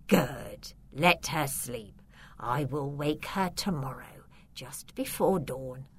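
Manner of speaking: low, soft, menacing count; a quiet sinister vampire. Acted.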